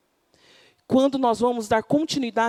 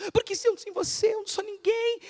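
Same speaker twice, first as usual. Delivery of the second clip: emotional blackmail; 9 semitones higher, 4 dB quieter than usual. Acted. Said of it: "chantagem emocional".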